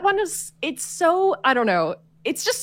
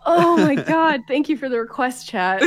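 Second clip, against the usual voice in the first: crying with laughter; 2 semitones higher than usual. Real, not acted. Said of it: "I'm, like, crying".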